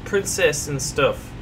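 prim British scolding, lightly; British accent. Pretend. Scolding his teammate about ladies in a light British accent. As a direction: tut like a proper Brit. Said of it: "talk in a British accent".

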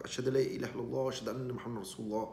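quick murmured Arabic prayer; rapid recitation. Retold or imitated. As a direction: rattle off the shahada fast. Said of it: "he shared it".

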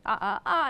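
short cries of pain, acted; mock pained cries. Lecturer voicing the hero's cries of pain. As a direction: cry out from the wound.

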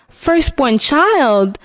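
slow, stunned disbelief; shocked echo. Acted. Husband hearing the witch's price, mildly stunned and slow. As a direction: repeat it as if you can't believe it. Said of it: "he exclaimed".

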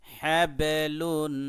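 হ্যাবেলুন sung out slowly and loud, ব bounced; হ্যাবেলুন intoned slowly with a push on ব; qalqala recitation. Shown as a demonstration. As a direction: chant হ্যাবেলুন like Quran recitation. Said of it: "ধাক্কা দিয়ে উচ্চারণ করতে হবে".

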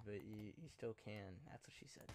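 soft whisper; whispered aside. Real, not acted. Gamer whispering a cheeky joke to teammates. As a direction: drop to a conspiratorial whisper.

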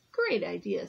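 flat robot voice. Acted. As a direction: speak like a robot. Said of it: "in his robotic voice".

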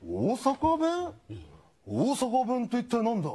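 cartoon turtle playing dumb about the dialect; puzzled turtle. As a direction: drag out the word as if it were foreign. Turtle feigns ignorance.

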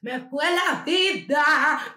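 lamento muy lento, agudo y fuerte, exagerado; lamento dramático. Retold or imitated. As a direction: estira cada palabra como un drama de niña. Niña llorando por su pelo. (lamento lento y exagerado)

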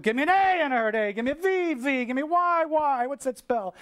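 high, rousing call-and-response cheer; cheerleading. Retold or imitated. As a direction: call out each letter to whip up the crowd. Leads spelling cheer at admiral.

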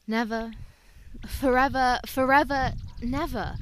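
swelling on forever, then falling away on never; mournful recital. Acted. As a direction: lament the words like a poem. Reciting sad words dramatically.

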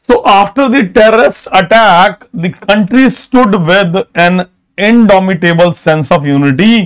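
very slow, word by word; teacher dictating an example sentence; slow example reading. Shown as a demonstration. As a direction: read the example slowly for notes. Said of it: "देखिए example देखिए".

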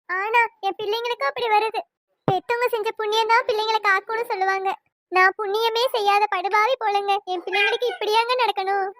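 anguished, plaintive pleading; tearful lament. Acted. Mother bewailing her children's hardships to her husband, tearful. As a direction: lament your children's suffering through tears. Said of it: "எல்லாம் அழுது என்னமா பண்றது".

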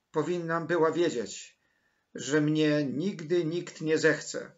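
loud, high, distressed lament; crying out. A narrator's reading. Orphan girl laments that nobody wants her, anguished outcry. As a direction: pour out despair dramatically, like a wounded child. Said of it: "krzyknęła".

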